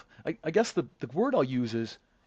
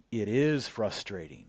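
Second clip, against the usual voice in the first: condescending; 4 semitones lower, slower than usual. Retold or imitated. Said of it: "like when you're talking to a child".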